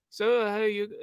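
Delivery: half-hearted Scottish accent imitation; attempted Scottish accent. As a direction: try a Scottish accent, not quite landing it. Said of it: "I can't even do the accent".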